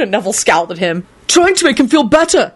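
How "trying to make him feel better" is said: high, heated retort; heated reply. Acted. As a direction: snap back hotly. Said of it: "he replied hotly".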